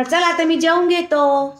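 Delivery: hint of a toddler saying goodbye; child's line. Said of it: "त्याला म्हणा".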